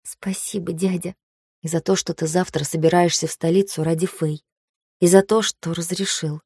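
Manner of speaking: soft, tender gratitude; hushed, heartfelt thanks; sultry narrator. Acted.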